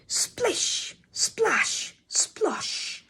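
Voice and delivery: high, breathy splashing chant; gleeful. A narrator's reading. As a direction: squeal it with glee like a child in a puddle. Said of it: "cried Ellie with glee".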